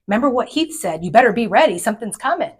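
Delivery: hamming up the husband's repeated warning. Retold or imitated. Wife mimics husband's warning, a hammed-up ominous voice. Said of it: "my husband would repeat what he said".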